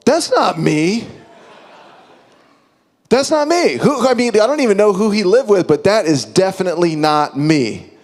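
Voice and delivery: rising to a loud high protest, laughing at first; a disbelieving 'not me' that climbs in pitch and volume; mock outrage at his friend's list; indignant denial. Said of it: "I'm like".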